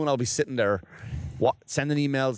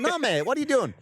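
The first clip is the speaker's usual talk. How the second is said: raised voice; 12 semitones higher than usual. Retold or imitated. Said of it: "I go".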